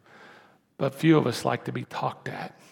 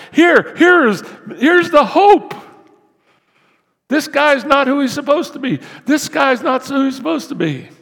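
loud, high mocking voice, much higher and louder; sarcastic mock hope; 9 semitones higher, 6 dB louder than usual. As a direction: sneer it out like a hater posting online. Mocking critical social media post.

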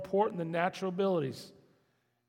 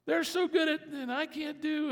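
higher, hammed-up jealous whimper; ability envy; 10 semitones higher, 5 dB louder than usual. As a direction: pine for what you can't do, playfully. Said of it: "We have ability envy".

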